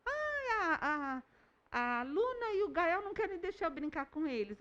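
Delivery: put-on high-pitched child complaining; high, plaintive kid voice; little boy. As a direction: imitate a small boy telling on his friends. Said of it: "aí ele conta".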